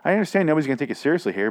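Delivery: high, put-on voice, rushing at the end; mock calming. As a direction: play yourself telling a screaming woman to settle down. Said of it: "and I was like".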